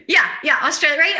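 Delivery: laughing yeah yeah. Real, not acted. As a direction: giggle through the words. Still laughing.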